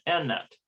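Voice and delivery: "Anat" said as en-AT, with English front vowels; anglicized pronunciation. Shown as a demonstration. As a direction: say "Anat" close to English Annette. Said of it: "rather than".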